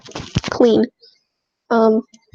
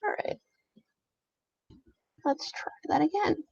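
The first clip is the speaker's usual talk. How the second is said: whispering; 6 semitones higher, 11 dB quieter than usual. Real, not acted. Unvoiced whisper to self.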